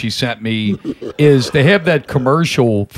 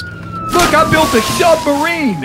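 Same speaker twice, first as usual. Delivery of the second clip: put-on high squeaky Cajun accent; 12 semitones higher than usual. Retelling the Cajun Flex Seal spoof, Cajun accent. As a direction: blurt it proudly in a Cajun accent. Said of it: "it's all Cajun".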